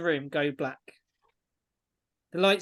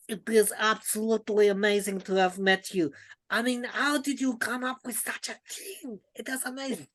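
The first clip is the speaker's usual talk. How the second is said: high, gushing fan voice; gushing admiration; 5 semitones higher than usual. Acted. Ijara greeting the small dwarf lady, gushing admiration. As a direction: gush in amazement, pitched up high. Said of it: "furiously shaking the hands of this small dwarf lady, going".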